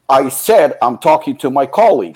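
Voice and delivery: imitating an annoyed clerk; mock exasperated ticket seller; irritated brush-off. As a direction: act out an impatient, emphatic rebuff. Acted rude clerk repeating himself.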